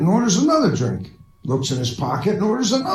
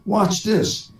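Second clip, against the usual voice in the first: slow confident; 4 semitones higher, much slower than usual. Acted. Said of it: "the first guy says".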